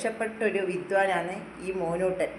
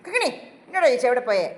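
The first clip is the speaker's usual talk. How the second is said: mock scolding; 5 dB louder, faster than usual. Shown as a demonstration. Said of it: "ദേഷ്യപ്പെടണം ചിരി കാണണമെങ്കിൽ".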